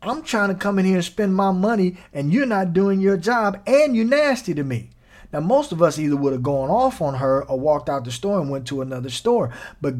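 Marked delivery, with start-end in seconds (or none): 0.0-4.9 higher, a touch of indignant customer; mild mock anger. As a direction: voice his irritation lightly. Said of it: "he was mad".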